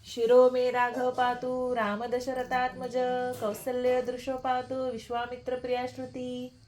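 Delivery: slow, fading Sanskrit recitation; prayer recitation. Acted.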